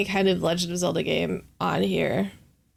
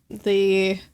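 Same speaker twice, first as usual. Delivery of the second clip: hiccup breaks the word; hiccuping mid-word. Real, not acted. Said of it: "sorry, I got the hiccups".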